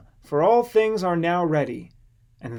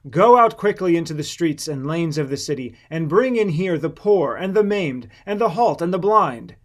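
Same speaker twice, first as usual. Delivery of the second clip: louder, forceful command; angry master sending his servant out; 5 dB louder than usual. Acted. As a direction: order the servant out in anger. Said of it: "being angry".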